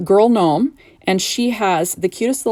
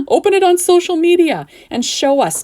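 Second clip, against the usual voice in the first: laughing; 10 semitones higher, 5 dB louder than usual. Real, not acted. Laughs after blanking on words.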